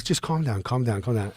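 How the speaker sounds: imitating a soothing friend; calming down. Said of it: "he's trying to calm me down".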